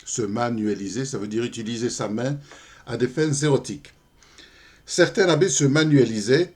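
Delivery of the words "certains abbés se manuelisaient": lifted, lilting opening of a verse; poem recitation. Acted. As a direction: launch into the poem in a raised voice. Commence la récitation du poème. (récitation de poème, attaque enlevée)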